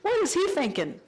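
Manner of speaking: high, indignant mock outrage; angry inner voice. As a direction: sputter at the man who cut in. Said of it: "this angry voice".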